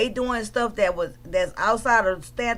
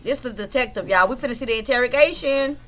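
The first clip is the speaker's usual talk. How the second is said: real excited holler, rising toward the end. Real, not acted. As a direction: holler it out, building as you go. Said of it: "Oh, I'm hollering".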